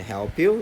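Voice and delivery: "help you" run together as helpyu; linked help you. Shown as a demonstration. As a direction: join the P of "help" straight into "you". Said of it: "이렇게 되는 거죠".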